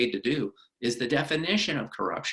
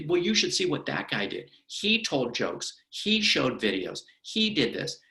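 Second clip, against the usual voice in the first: mock accusing rant; slower than usual. Employee on the stand blaming the person suing, mock rant. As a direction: hammer out each accusation slowly. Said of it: "as soon as they're done with their rant".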